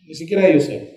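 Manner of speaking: ordinary talk, nothing marked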